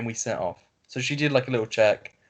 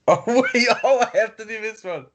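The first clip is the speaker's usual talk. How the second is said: excited; 9 semitones higher, 4 dB louder than usual. Real, not acted. Excited reaction to a post.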